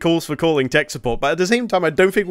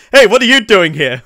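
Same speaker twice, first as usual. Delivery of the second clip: surprised character voice; 6 semitones higher, 8 dB louder than usual. Retold or imitated. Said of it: "It's just like".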